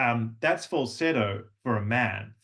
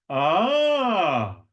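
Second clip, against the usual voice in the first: much higher, louder ah; delighted ah; 6 semitones higher, 5 dB louder than usual. Shown as a demonstration. Teacher reacting to a student doing it right, louder ah. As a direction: cheer a student's win. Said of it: "done something right in your class".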